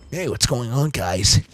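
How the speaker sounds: casual streamer trying a Sonic voice; Sonic impression. Streamer doing a weak Sonic the Hedgehog voice. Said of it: "Sonic impression".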